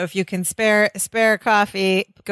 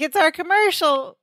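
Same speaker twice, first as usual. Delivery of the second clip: higher-pitched, mildly excited imitation; retold excitement; 6 semitones higher than usual. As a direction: lightly act out someone thrilled to be on TV. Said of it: "Balky gets all excited".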